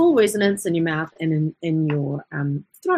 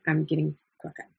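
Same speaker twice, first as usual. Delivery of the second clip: fast and softer, a muttered repeat of the brag; quick aside; 4 semitones lower, 6 dB quieter, faster than usual. Real, not acted. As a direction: toss it off quickly under your breath.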